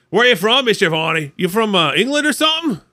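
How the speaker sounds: put-on second take of the kids. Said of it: "Except it wasn't like".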